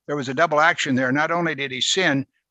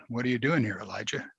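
patient; 3 semitones lower, 7 dB quieter, faster than usual. Retold or imitated. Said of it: "patiently asked him again".

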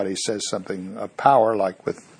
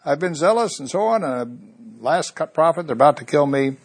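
Elijah repeating complaint; 5 semitones higher, 3 dB louder than usual. Acted. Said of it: "He says the very same thing".

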